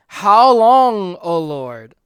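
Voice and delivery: loud, high crying out to God; martyrs' loud lament; anguished plea. Retold or imitated. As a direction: beg for justice with rising urgency. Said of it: "They go to the Lord and they say".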